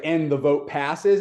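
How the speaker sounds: slightly drawn-out, mildly joyful retelling; understated imitation of a happy announcer; joyful announcement. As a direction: announce the result with a touch of joy. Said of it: "this kind of joy in her voice".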